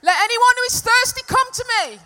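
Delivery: full-voiced shout, high and sustained; loud proclamation. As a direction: cry it out to a huge crowd with no microphone. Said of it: "That's what it would have been like".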